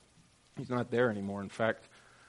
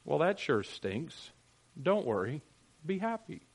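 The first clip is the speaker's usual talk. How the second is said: mock flippant Jesus; 4 semitones higher than usual. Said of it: "what does Jesus say".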